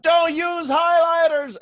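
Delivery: loud, high, drawn-out shout; screaming. Acted. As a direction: scream it over all the noise in the brain. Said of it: "had to scream it so loud".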